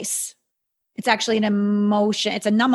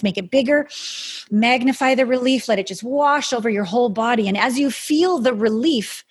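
airy breathy mystical healer. Acted. Guides a relief meditation.

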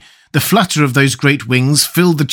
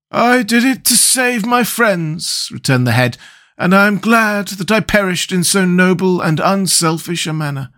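noble Scarecrow; 6 semitones higher than usual. Acted.

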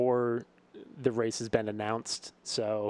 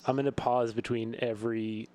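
hungover. Real, not acted. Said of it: "my whole speech, like, pattern is slowed down".

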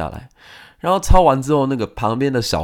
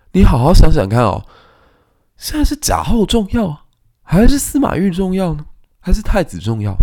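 scheming advisor; 9 semitones higher, 6 dB louder than usual. Retold or imitated. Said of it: "孙秀的谋士就跳出来讲".

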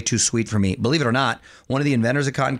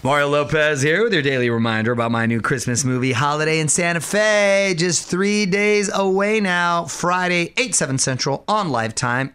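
radio promo read; 2 semitones higher than usual. Acted. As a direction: plug it like a radio host. Radio host plugs his movie.

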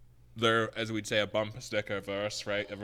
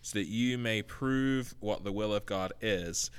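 scripture reading. Acted. Reads Romans twelve aloud.

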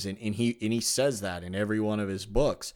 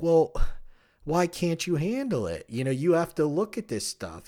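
incredulous retort; 7 semitones higher than usual. Retold or imitated. Host retorting to people who can't handle the book, exasperated. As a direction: push back in disbelief, pitch jumping up. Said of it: "And I'm like".

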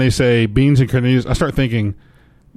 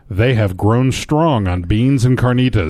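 reading, distancing; slower than usual. Shown as a demonstration. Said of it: "This is not me saying this".

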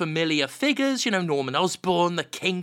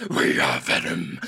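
much lower, slow, rasping monster voice; Venom voice. Retold or imitated. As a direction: growl it as the symbiote. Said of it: "it's like".

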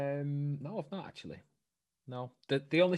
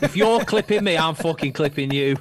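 loud, raised, laughing threat; amused, high-energy retort; 5 semitones higher, 11 dB louder than usual. Real, not acted. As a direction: shout it through laughter. Laughing at the failed attempt.

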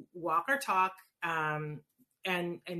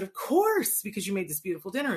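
eager yes; 2 semitones higher, 4 dB louder, faster than usual. Retold or imitated. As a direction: gush a quick of course. Guests eagerly agreeing to hostess.

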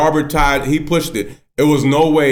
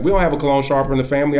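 quick denial; 2 semitones higher, much faster than usual. Retold or imitated. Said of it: "He said it just like that".

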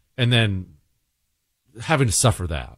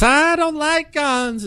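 high, slow mock mom voice; hammed-up mom saying no to guns; mom objecting; 11 semitones higher, slower than usual. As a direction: play the reluctant mother, drawn out.

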